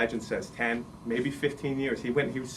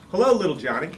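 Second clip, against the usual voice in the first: head clown; 3 semitones higher, 5 dB louder, faster than usual. Acted. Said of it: "He said".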